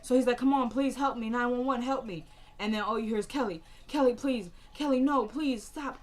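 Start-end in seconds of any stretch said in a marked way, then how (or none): 0.4-2.3 pleading for help. Retold or imitated. Stabbed man pleading on emergency call. 3.2-6.0 retold begging. Victim begging attacker on recorded call.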